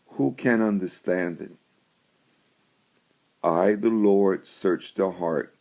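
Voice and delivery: measured, solemn Bible reading; scripture reading. Acted. Reads scripture verse.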